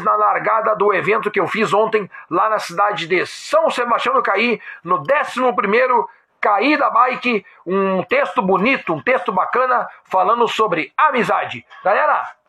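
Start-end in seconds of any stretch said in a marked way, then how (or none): none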